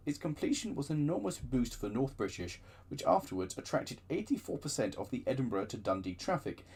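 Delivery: ordinary delivery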